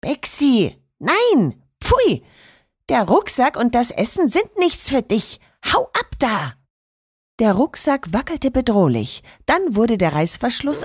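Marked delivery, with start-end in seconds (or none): 0.0-6.5 grandma scolding the cat, much higher on „pfui!“. Acted. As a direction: shoo the cat off like a stern grandma. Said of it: "Oma Mariannes Stimme". (schimpfende Oma)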